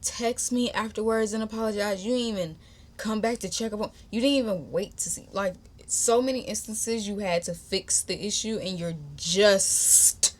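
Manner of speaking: retold indignant scolding; miffed, emphatic telling-off; attitude. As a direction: lay out the grievance with attitude. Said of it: "I had an attitude at that point".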